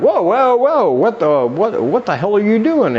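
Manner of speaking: high, startled protest; stammered, incredulous demand acted out; alarmed objection. Acted startled woman objecting mid-act.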